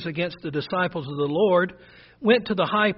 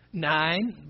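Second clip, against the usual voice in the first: NINE in a rural Buford accent; own country accent. Shown as a demonstration. Preacher owning up to his hometown accent, rural country "nine". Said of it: "Trying to work on my accent. I say".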